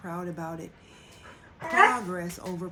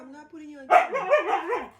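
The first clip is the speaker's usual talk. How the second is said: raised, higher call to someone off camera; 9 semitones higher, 8 dB louder than usual. Real, not acted. Telling someone nearby they are not on camera, called out loud. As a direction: call it across the room, firm.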